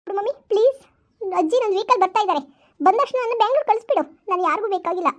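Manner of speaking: put-on a hurt child sobbing out her complaint to mom; tearful pleading daughter. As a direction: daughter pleading with mother through tears.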